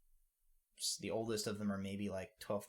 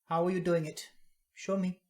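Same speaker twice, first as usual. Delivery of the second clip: higher, louder granny demanding a demonstration; firm command to show her; stern granny; 9 semitones higher, 10 dB louder than usual. Acted. Granny ordering the thief to show his trick, higher and louder.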